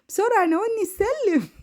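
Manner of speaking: urgent plea. Retold or imitated. Urging husband to pass ladder.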